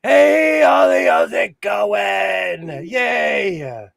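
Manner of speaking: loud, high happy greeting; excited shout. Real, not acted. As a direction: call out a cheerful hello.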